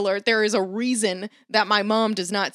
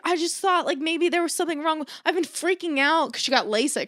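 high-pitched imitation of a fretting mom; 7 semitones higher than usual. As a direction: squeak it out like a worried mom. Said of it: "She's like".

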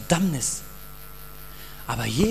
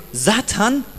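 firm rebuke; 5 semitones higher than usual. Retold or imitated. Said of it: "Und ich sage".

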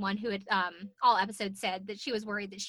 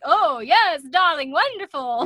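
higher, louder campy Tyra gush; mock Tyra; 6 semitones higher, 10 dB louder, slower than usual. Podcaster imitating Tyra praising contestant, high campy gush. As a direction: gush like a diva host.

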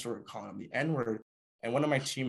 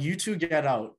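sharp raised shout, higher and louder; angry yelled order; 5 semitones higher, 5 dB louder than usual. Retold or imitated. Captain ordering two players out, angry shout. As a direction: throw them out in a flash of anger.

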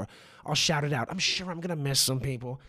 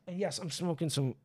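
smoky voice; 4 dB quieter than usual. Real, not acted. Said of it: "so it might sound like that".

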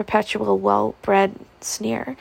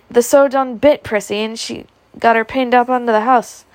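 a hint of a servant's accent, raised; servant calling back; 3 semitones higher, 4 dB louder than usual. Maid calling back up to Scarlett, lightly voiced. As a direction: call it back up, a little louder.

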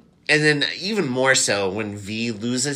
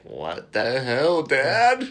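mock outrage; much slower than usual. Veronica confronting her dad, rising indignant. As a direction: throw it at your father. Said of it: "And she's like".

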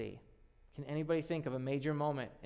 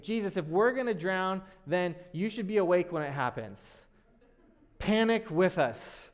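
loud, alarmed plea, slowing on the last words; half-acted panic as the boat sinks; panicky disciples; 3 semitones higher, 5 dB louder than usual. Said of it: "The disciples are panicking".

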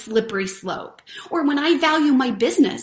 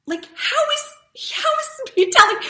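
laughing; 14 semitones higher than usual. Real, not acted. Laughing, high-pitched burst.

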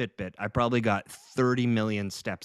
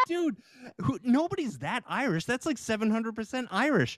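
squeaky, much higher retelling of the punchline; high-pitched incredulous quote; 10 semitones higher than usual. Retold or imitated. Retelling the comedian's joke that set him off, high-pitched and incredulous. Quoting joke, could not stop laughing.

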